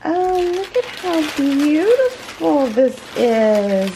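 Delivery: high, loud and slow with delight; real excitement. Real, not acted. Unboxing the handmade bag for viewers, thrilled and high. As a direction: gush over the gift, voice soaring. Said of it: "I'm even shaking".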